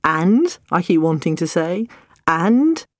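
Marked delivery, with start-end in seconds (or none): 0.0-0.6 headmaster prompting. Retold or imitated. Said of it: "like an old-fashioned headmaster". 2.3-2.9 a hint of an old-fashioned headmaster, rising and higher; stern headmaster prompting. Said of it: "like an old-fashioned headmaster".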